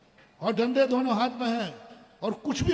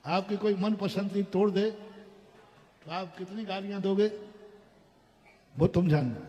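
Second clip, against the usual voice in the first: usual speaking voice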